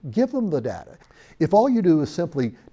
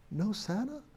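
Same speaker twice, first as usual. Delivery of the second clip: put-on heartbroken child; 6 semitones higher, 8 dB quieter than usual. Crushed little boy doubts Santa.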